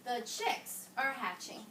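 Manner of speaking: The chicks are hatching read slowly, each word placed; slow modeled reading. Shown as a demonstration. Teacher models slow careful reading for class. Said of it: "watch what I do".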